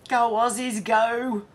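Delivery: root for them like a fan; cheering. Real, not acted. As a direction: go Aussies, a little cheer. Cheering on protesters.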